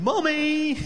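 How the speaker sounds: put-on a whiny little kid yelling for mum; screaming kid.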